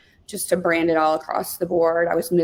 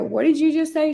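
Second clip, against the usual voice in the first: higher, startled question; astonished; 8 semitones higher than usual. Real, not acted. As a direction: turn around in disbelief. Mom turns around astonished.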